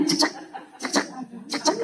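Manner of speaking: short clipped beeps of a heart monitor. Shown as a demonstration. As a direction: tap out each cek like a monitor blip. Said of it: "Harus seperti detektor jantung". (bunyi cek cek monitor jantung)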